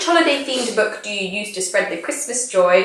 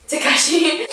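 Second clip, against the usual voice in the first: playful; 5 semitones higher, slower than usual. Pretend. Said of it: "we're on a first name basis".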